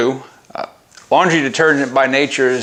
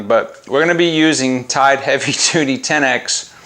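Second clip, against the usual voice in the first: breaking into giggles; can't hold back laughter; laughing mid-sentence. Real, not acted. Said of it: "I don't know why this is so funny".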